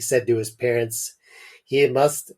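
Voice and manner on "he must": put-on French accent. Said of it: "this is a French accent".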